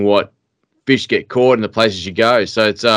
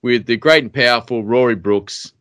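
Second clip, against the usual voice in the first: grand announcer intro; slower than usual. Acted. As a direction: announce the guest with a big build-up. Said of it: "such a st-, uh, s-, extravagant introduction".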